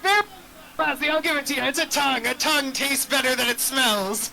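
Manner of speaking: pirate voice. Acted. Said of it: "talking like a pirate".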